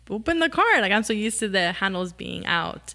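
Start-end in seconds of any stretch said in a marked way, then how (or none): 0.1-0.8 puzzled. Retold or imitated. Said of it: "So then I was like".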